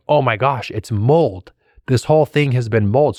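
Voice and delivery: excited at having an answer at last; retold excitement. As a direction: sound like you finally found the answer. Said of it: "like, excited".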